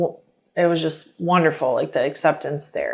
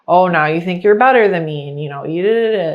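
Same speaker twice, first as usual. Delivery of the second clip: mock accusing; 4 dB louder than usual. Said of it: "fighting from me".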